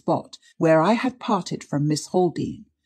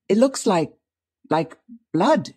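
halting, frightened, pitched-up stammer; 4 semitones higher, 3 dB louder than usual. A narrator's reading. Niece seeing blood on her skirt, stammering. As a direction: falter and repeat in fear. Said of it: "she stammered".

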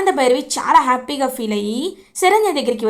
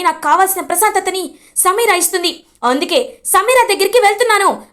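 angry outburst; 4 semitones higher than usual. Acted. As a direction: pour out the grievance fast and hot. Son's outburst against family.

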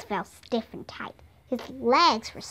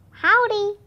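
higher, louder answering hello; raised, ringing reply; called greeting; 9 semitones higher, 5 dB louder than usual. A narrator's reading. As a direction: call the greeting back.

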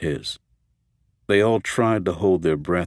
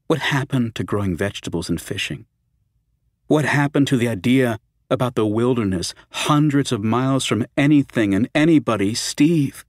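rising plea; 4 semitones higher than usual. Acted. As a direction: press him harder with each line. Fran pleads, voice rising.

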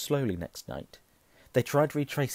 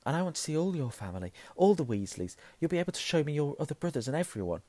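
quick, higher-pitched excitement; eager; 6 semitones higher, faster than usual. Acted. Harry eager in acted dialogue.

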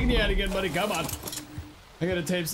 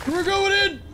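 loud, high rallying yell; battle cry; 11 semitones higher, 7 dB louder than usual. Real, not acted. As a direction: shout as you charge in. Charging into fight.

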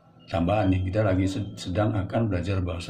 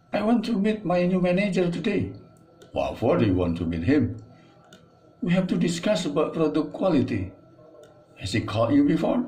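dialogue reading; 7 semitones higher than usual. Acted. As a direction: read the dialogue aloud for learners. Reads both dialogue parts.

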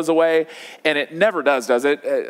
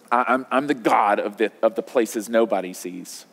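solemn divine declaration; 5 semitones lower than usual. Acted. Voicing Jesus's solemn declaration.

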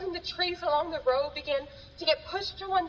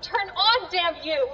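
frustrated curse; 5 dB louder, slower than usual. Acted. Struggling with broken radio.

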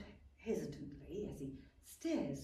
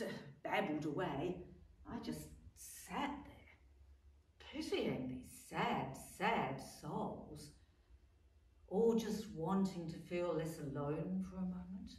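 pitying; 3 semitones lower, slower than usual. Acted. She pities the lonely old men.

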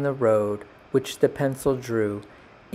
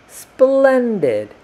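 high, loud cry of approval; delighted; 10 semitones higher, 6 dB louder than usual. A narrator's reading. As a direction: exclaim it with pitched-up delight. Delighted paintbrush gets its name.

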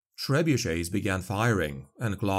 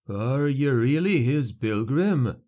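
slow, higher dim-witted peasant; simple peasant voice; 4 semitones higher, 3 dB louder, slower than usual. A narrator's reading. Peasant asking Claude in awe, slow and higher. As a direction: ask slowly, a little higher, wide-eyed.

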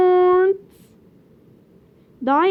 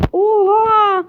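surprised; 4 semitones higher, 9 dB louder than usual. Real, not acted. Finds secret area.

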